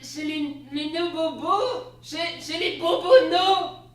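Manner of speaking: high, loud, slow fumbling repeat; stammering. Acted. Wife mangling "bonobos" in disbelief, stammering. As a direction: trip over the word in confusion. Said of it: "je dis en bafouillant".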